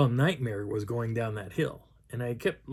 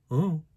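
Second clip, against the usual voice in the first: short, high hooted "oh"; imitated response; 5 semitones higher than usual. Narrator imitating what he heard behind trees, high hoot. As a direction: imitate a strange call from the trees. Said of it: "what I hear is".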